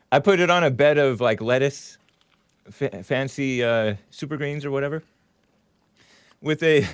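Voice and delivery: talking while chewing; words around a mouthful of jerky; mouth full. Real, not acted. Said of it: "sorry, I'm from chewing my mouth, with my mouth full".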